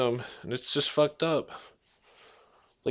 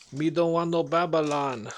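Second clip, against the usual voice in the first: Jamaican reggae voice. Retold or imitated. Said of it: "That's that reggae".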